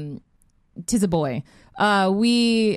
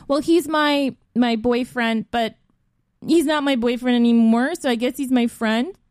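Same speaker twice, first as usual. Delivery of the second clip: higher, mock-tearful rambling; retold near-sobbing; 4 semitones higher than usual. Explaining the ex to the cops, mock tearful. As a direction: imitate working up to a sob, clause by clause. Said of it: "And I start sobbing".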